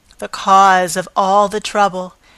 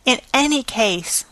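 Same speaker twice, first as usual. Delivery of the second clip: yelped; 4 semitones higher than usual. Acted. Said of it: "she yelped".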